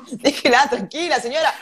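laughing mock reproach; laughing scold. Real, not acted. Joking scolding co-host, laughing.

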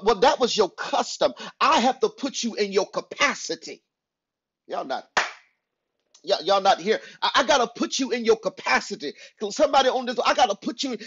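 insistent sermon delivery; emphatic preaching. Real, not acted. Preacher correcting church members' habits, emphatic preaching. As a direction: press the congregation on the point.

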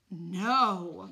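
a loud, shocked mom; mother's shout. A narrator's reading. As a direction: shout it in disbelief. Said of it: "my mom shouted".

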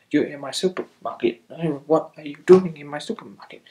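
lightly voiced angry cartoon guy, rising; mock cartoon shopkeeper. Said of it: "he's like".

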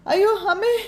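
high panicked yelp; frightened cry. Acted. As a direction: cry out in sudden fear. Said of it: "ഭയങ്കര ബഹളം".

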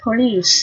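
"police" with a long "ee" ending in S; long EE sound. Shown as a demonstration. Teacher shows learners the long vowel, clearly modelled. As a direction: model "police" as "puh-LEESE". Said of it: "phát âm là âm Y dài".

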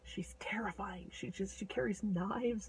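hushed, breathy warning; whispered aside. A narrator's reading. Narrator warning listeners about the robber girl, whispered. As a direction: whisper it like a scary secret.

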